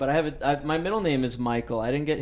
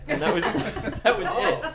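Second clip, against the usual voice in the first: high, laughing through the words; can't stop giggling; 7 semitones higher than usual. Real, not acted. Laughing at end of story.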